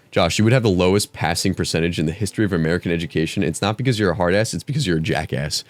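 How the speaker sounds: fast, lightly voiced scolding teacher; mock English teacher. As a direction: rattle off a scornful put-down as the teacher. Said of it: "role-playing as one of my English teachers".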